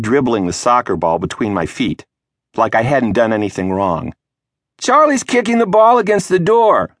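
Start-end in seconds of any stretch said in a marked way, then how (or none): 4.8-6.9 put-on higher, louder small-girl tattling shout; little sister shouting. A narrator's reading. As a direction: call it out to Mom like a gleeful tattler. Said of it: "the Squid shouted".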